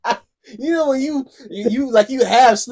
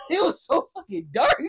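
normal talking voice

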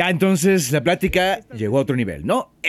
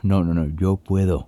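chewing while speaking; mouth full; 7 semitones lower than usual. Real, not acted. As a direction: talk through a mouthful. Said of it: "le contestas hablando con la boca llena de comida".

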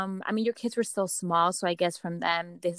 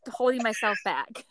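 holding back laughter; 4 semitones higher than usual. Real, not acted. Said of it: "I'm over here trying".

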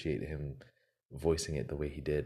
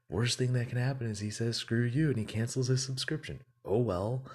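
higher-pitched inner pep talk; acted-out self-persuasion; 6 semitones higher, 3 dB louder than usual. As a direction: talk yourself into it, voice still raised in pitch. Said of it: "had this internal battle with himself".

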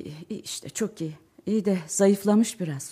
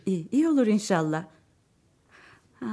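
usual speaking voice

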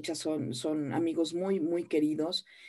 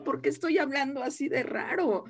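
mock despair; 3 semitones higher than usual. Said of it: "yo decía".

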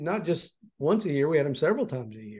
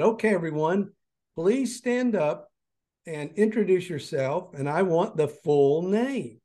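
teacher voice; 3 semitones higher than usual. Retold or imitated. Teacher voiced in retold story.

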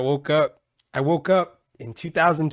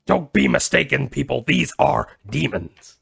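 evangelist host impression; 5 dB louder than usual. Podcaster mocks a too-evangelist host, mock preaching.

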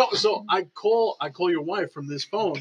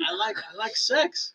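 put-on Chinese accent; 5 dB quieter, slower than usual. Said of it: "the Chinese guy's like".

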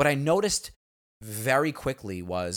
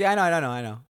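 lightly mimicked brush-off, starting higher; dismissive mother; 3 semitones higher, much faster than usual. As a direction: imitate a mom waving away her son's protest. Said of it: "she doesn't even care".

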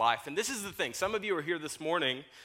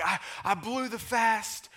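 retold panic; 8 semitones higher than usual. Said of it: "He calls me freaking out".

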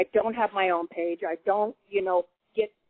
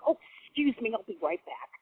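imitating a curt, businesslike excuse; mildly voiced grumpy farm lady, matter-of-fact; 2 semitones higher, 5 dB quieter than usual. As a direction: brush it off like nothing happened. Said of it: "kinda like that, just matter-of-factly".

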